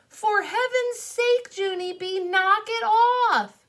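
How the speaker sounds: high, loud, slow scolding yell; yelling mother. Acted. Mother grabbing screaming girl by the pants, slow scolding yell. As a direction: stop the child with a sharp yell. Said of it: "she yelled".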